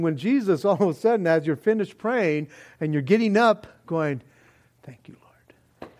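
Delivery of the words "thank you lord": slow, breathy whispered thanks; whispered prayer. Pretend. Mock pious end of prayer.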